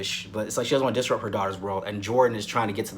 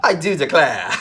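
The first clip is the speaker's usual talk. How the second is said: hammed-up Southern drawl, higher and louder; Southern accent; 4 semitones higher, 7 dB louder than usual. Attempting the soap's Southern accents, exaggerated Southern drawl. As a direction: put on a mock Southern accent. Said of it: "how do you do a southern accent?".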